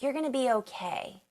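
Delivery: quoting a kind stranger calmly; soft comforting words; calm reassurance. Retold or imitated. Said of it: "he just calmly told the story".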